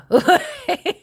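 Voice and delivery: sudden high-pitched laugh. Real, not acted. Reacting to the tarot cards.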